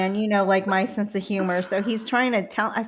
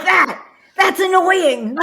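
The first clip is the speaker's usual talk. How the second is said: high, loud, laughing shout; 10 semitones higher, 9 dB louder, much slower than usual. Real, not acted. Quoting husband, laughing loudly. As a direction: blurt it out through laughter.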